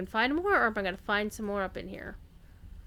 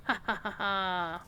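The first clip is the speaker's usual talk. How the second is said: laughing; 2 semitones lower than usual. Real, not acted. Spelled laugh.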